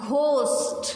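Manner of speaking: "ghost" said as one unbroken unit; one-syllable demonstration. Shown as a demonstration. Teacher giving a one-syllable example, said as one unit. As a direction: say "ghost" in a single beat. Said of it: "this is called one syllable".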